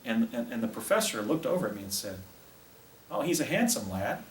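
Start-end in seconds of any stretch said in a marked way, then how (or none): 3.1-4.2 a lightly raised, slightly higher voice. Retold or imitated. Martian professor greets the boy, mildly higher voice. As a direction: lift the pitch a little, like a helium voice. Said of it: "in a high voice".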